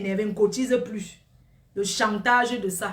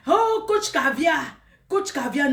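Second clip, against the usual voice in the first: drawn-out call; 4 semitones higher, 3 dB louder, slower than usual. Real, not acted.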